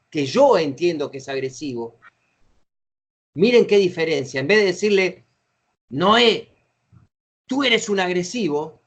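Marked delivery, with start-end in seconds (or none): 5.9-8.8 mild demonstrated accusation, falling firmly at the end; exclaimed accusation. Shown as a demonstration. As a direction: state it as a verdict, with an exclamation mark. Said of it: "signo de admiración".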